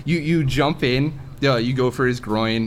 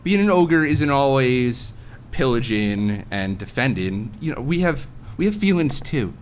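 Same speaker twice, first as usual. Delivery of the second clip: higher-pitched, plaintive ogre complaint; a hint of a misunderstood ogre pleading; lightly voiced ogre; 3 semitones higher than usual. Ogre confiding that they have feelings too, mildly plaintive.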